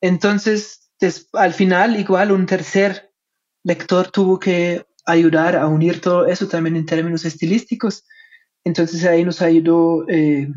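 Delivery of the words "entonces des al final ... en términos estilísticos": German accent Spanish. Real, not acted. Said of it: "Como soy alemán, mi español no es perfecto".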